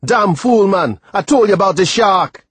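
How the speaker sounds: loud, high furious scolding; angry yell. Acted. Timothy scolds the boy after the rescue, angry yell. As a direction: bawl him out in a rage. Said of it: "He yelled".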